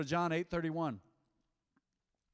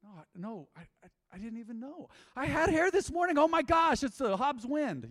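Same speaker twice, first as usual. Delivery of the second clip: hammed-up panic, much higher and louder; playful mock horror, slowing at the end; 8 semitones higher, 5 dB louder than usual. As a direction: fake alarm rising to a squeal. Mock panic about losing hair.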